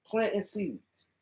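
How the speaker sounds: a quiet, deliberate repeat of "Planting seeds"; quiet slow echo. Shown as a demonstration. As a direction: drop the voice and let "Planting seeds" sink in slowly. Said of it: "all that is planting seeds".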